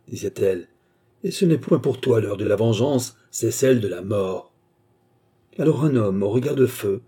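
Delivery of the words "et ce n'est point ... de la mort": thundering voice. Acted. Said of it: "une voix tonnante".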